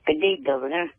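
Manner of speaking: attempted British accent, barely there. Shown as a demonstration. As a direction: have a modest go at a British accent. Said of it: "let me hear you do a British accent".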